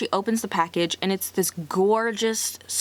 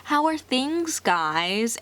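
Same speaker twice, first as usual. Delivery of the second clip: overly polite, higher voice; forced cordial; 5 semitones higher, much slower than usual. Retold or imitated. Angela trying to be nice at family dinner, forced cheer. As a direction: put on a strained politeness at the table. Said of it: "she's trying to be, like, cordial".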